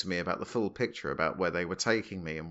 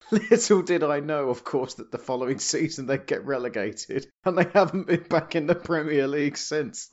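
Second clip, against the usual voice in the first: mock commentary, amused; 4 semitones higher, 5 dB louder than usual. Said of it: "there'll be a commentary saying".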